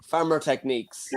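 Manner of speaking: put-on broad Mayo farmer accent; gruff west of Ireland Mayo voice. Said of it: "I struck with my Mayo voice".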